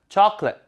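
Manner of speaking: chocolate as "CHAH-klit"; tensed, reduced English. Shown as a demonstration. Teacher modelling for repetition, chocolate in two beats. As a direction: stress the first beat of chocolate, drop the middle. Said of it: "가깝습니다".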